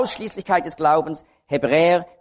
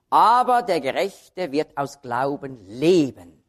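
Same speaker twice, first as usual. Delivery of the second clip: slow line landing on leben; stress on leben; 3 semitones lower, slower than usual. Shown as a demonstration. Preacher citing Hebrews on perseverance, stress on leben. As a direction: stretch out leben at the close. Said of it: "Da liegt also die Betonung auf dem Leben".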